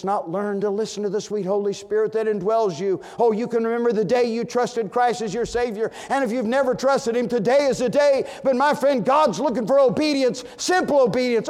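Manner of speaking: loud, high, ringing sermon delivery; full-force preaching. Acted. Preacher booming to the congregation in full-force preaching. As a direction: preach it out to the pews. Closing altar call.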